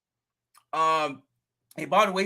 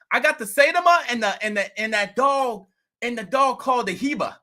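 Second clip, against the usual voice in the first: bragging about his coin, pumped up; imitating the neighbor; 5 semitones higher than usual. Neighbor bragging to the vlogger about his coin, excited higher voice.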